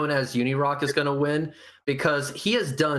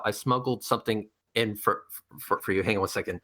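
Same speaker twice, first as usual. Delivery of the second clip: low sneaky voice; 6 semitones lower, 4 dB quieter, faster than usual. Pretend. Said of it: "be like".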